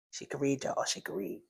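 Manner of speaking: quiet amused aside. Real, not acted. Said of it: "amused aside about character reading".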